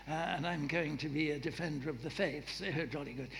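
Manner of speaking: a lightly done posh royal voice; a bad, mild rip-off of Prince Charles; Prince Charles impression. Preacher mimics Prince Charles fiddling with his ring, lightly posh. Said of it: "a bad rip-off of Prince Charles".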